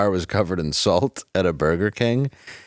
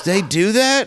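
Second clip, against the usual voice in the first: amazed question; 11 semitones higher, 3 dB louder, slower than usual. Retold or imitated. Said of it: "and she goes".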